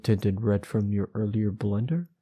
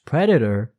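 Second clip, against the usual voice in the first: surprised; 2 semitones higher, 8 dB louder than usual. Real, not acted.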